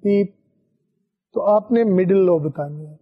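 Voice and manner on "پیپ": imitated mid-pitched pip; a middle tone, said as pip; medium beep. Shown as a demonstration. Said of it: "اگر وہ medium pitch کی tone ہوگی".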